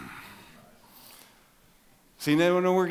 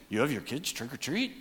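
softer, as if only thinking it; quiet inner thought; 7 dB quieter than usual. Retold or imitated. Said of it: "some of you thinking".

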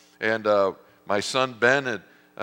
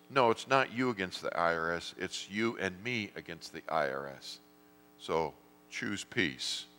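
gentle divine reassurance; 2 semitones lower, 6 dB quieter than usual. Retold or imitated. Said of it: "then he goes".

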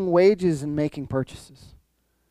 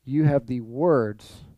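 profound statement; slower than usual. Retold or imitated. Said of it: "Peter makes this profound statement".

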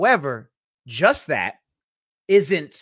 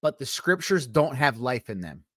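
careful, measured delivery; deliberate statement; 3 semitones lower than usual. Real, not acted. Speaker making a point people might misunderstand, measured. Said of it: "Let me say this real slowly".

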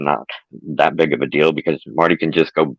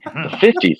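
dreamy distant voice; 11 semitones higher than usual. Acted. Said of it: "said Marty in a dreamy voice".

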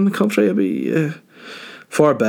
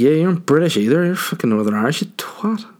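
higher-pitched comeback to "not British"; mock retort; 6 semitones higher than usual. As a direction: throw it back, pitched up and indignant. Mock retort to imagined Arlene.

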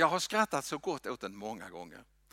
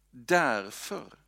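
louder, ringing out with a rise; proclaimed; 6 dB louder than usual. Shown as a demonstration. Preacher proclaims the answer aloud to the congregation. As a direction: declare it boldly to the room.

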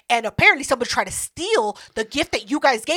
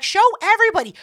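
higher, louder mock order; high bossy command; 9 semitones higher, 5 dB louder, faster than usual. Imitating the bird telling her to show everyone, high bossy. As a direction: chirp the order brightly.

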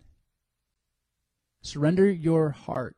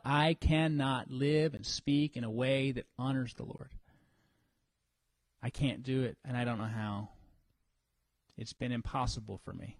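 lower, much softer confession; humble confession; 7 semitones lower, 6 dB quieter than usual. Pretend. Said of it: "humbling ourselves and saying".

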